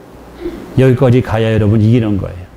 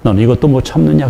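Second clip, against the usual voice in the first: voice of the Lord; 4 semitones lower than usual. Retold or imitated. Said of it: "그 한마디".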